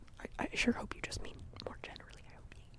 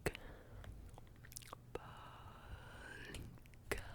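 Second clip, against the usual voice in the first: gentle mascara cue; 4 semitones lower, much slower than usual. Pretend. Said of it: "Are you ready?".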